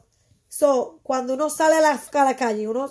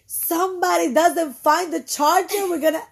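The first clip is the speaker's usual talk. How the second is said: each word of "Somebody doesn't find the charger" dragged out slowly, higher; slow mock threat; 4 semitones higher, slower than usual. Mom warning her kids about the lost charger, slow and drawn out. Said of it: "and I'm like".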